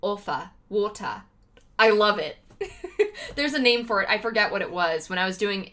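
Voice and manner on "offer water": "offer" and "water" with a rounded British RP O; RP O vowel. Shown as a demonstration. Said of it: "one of my favorite vowels to do in the R P accent".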